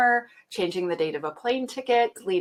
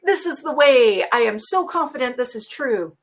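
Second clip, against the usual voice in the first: imitating a smug know-it-all AI; lightly mocking AI certainty; mock overconfident AI; 4 semitones higher, 4 dB louder than usual. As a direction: puff it up like a cocky bot. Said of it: "They're just like".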